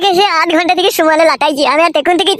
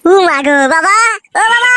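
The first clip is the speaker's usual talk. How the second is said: calling out; 4 semitones higher than usual. Acted. Son calls out to his father.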